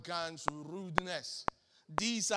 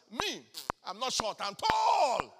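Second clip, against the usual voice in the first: mock boast; 3 semitones higher, 5 dB louder than usual. Mock boastful short man.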